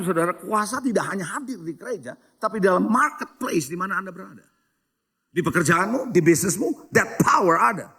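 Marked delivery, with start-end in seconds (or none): 5.3-7.9 ringing sung shout of praise; preaching shout. Real, not acted. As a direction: belt it out like a preacher's climax. Preacher proclaiming power to congregation.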